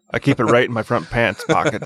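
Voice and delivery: pants leaned on with extra weight; stress on pants. Real, not acted. Co-host teasing, stress on pants in front pants pocket. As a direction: give the word pants a sly little push. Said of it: "why did you emphasize the word pants there".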